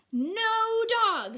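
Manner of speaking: loud high flat refusal; firm no. Acted. Dad refusing Matthew, loud and firm. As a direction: put your foot down, loud.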